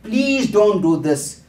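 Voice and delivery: high, slow, begging plea with a hint of tears; crying plea. The crying boy begs his father not to leave Grandpa, slow and high. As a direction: beg him slowly, close to tears. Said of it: "And the boy started crying".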